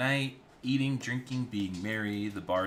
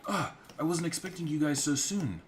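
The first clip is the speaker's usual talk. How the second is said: higher and louder, grand entrance; a stately villain greeting the room; imperious lady commander; Magister voice; 10 semitones higher, 5 dB louder than usual. Acted. Magister's first line.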